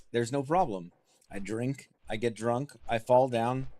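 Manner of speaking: mock Scottish dwarf brogue; hearty dwarf, proud of his drinking; dwarf Scottish accent. Player in character as dwarf, light Scottish brogue.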